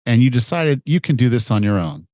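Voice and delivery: upbeat, persuasive sales pitch; ad read. Acted. Coach pitching his fitness program to listeners, upbeat ad read. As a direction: sell the challenge straight to the listener. Host reads a recorded ad.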